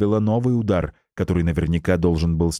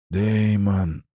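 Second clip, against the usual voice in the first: hoarse rasp. Acted. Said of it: "послышался хрип над ухом".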